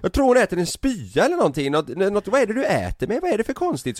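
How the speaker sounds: high-pitched imitation of an alarmed caller; alarmed questioning. Så ropar hon till oss. (härmar ljust, oroligt ropande)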